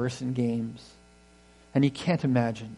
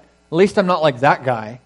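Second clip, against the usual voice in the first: self-righteous; 6 dB louder than usual. Pretend. Mock self-righteous comparison.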